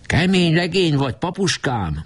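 put-on high, bright boyish voice of praise; a boy proudly praising his leader, pitched well up. Boat boy praising the president, proud and high.

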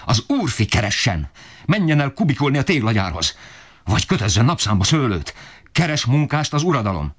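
very high, ferocious tirade; father turning his fury on his son, high-pitched rage. A narrator's reading. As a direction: point at the boy and tear into him. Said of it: "Apám erre még jobban megbőszült".

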